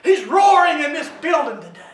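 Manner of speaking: emphatic, driving exhortation; rally the congregation; preaching at full force. Real, not acted.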